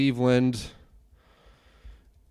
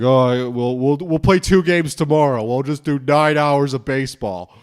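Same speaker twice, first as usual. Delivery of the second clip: louder, hammed-up careless ballplayer; mock the players shrugging off nine hours of baseball; jokey voice of a careless baseball team; 4 semitones higher, 7 dB louder than usual. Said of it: "it's like".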